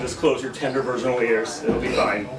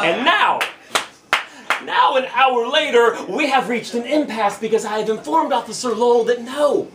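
raised, insistent spoken-word delivery; slam poetry; 7 semitones higher than usual. Acted. Driver refusing the officer's car search, slam poetry. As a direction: stand firm and press each phrase. Second slam poem continues.

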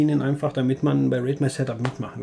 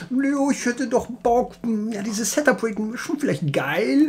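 hohe nachgeäffte Frauenstimme; 9 semitones higher, slower than usual. Retold or imitated. Mocking JJ suddenly wanting in.

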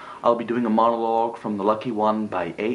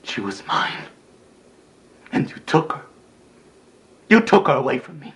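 pained, angry outburst; anguished accusation; 4 semitones higher than usual. Acted. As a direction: burst out at the brother who robbed you. Acted anguished accusation over lost love.

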